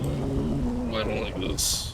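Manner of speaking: anxious, dreading the night; nervous. Real, not acted. Nervous in storm.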